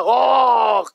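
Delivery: drawn-out "och" aimed at a lazybones; hammed-up moan of complaint; mock groan. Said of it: "βογκάει". (κοροϊδευτικό βογκητό)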